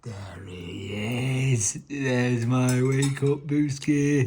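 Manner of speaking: drawn-out loving coo; slow fond coo. Real, not acted. Dad greeting his just-woken son, slow fond coo.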